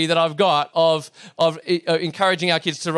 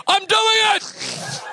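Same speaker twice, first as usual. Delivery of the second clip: very high, drawn-out shout of triumph; hammed-up little boy's elated cry; jubilant child; much slower than usual. Son riding alone for the first time, jubilant shout.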